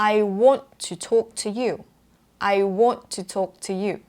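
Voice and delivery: WANT with a short rounded o, TALK with a long one; British rounded vowels. Shown as a demonstration. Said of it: "แบบนี้". (want กับ talk ปากกลมแบบอังกฤษ)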